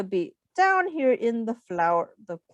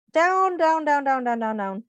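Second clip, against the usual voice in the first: sliding down; 2 semitones higher than usual. Shown as a demonstration. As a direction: let the voice sink with each "down". Acts out pollen sliding down.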